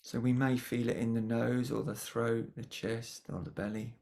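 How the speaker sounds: calm, unhurried guiding voice with long pauses; guided meditation. Acted. Meditation teacher guiding attention to the breath, calm guiding voice. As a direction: gently lead the listeners inwards, pausing between phrases.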